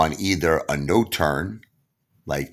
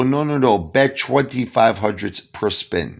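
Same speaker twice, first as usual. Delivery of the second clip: casino hustler; 6 semitones higher than usual. Retold or imitated. Pablo insisting on bet.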